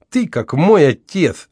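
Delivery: a touch of contempt from a toothless woman; contemptuous. A narrator's reading. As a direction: sneer it at him. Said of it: "презрительно произнесла она".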